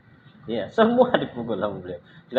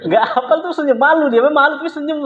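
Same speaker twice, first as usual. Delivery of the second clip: sheepish grin; 7 dB louder than usual. Retold or imitated. Mimics embarrassed smiling Indonesian student.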